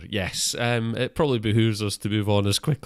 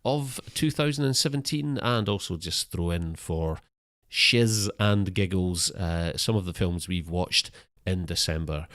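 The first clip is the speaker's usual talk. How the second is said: slow, grand host announcement; mock-grand host voice, slowed; show host intro. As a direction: introduce the show like a pompous presenter.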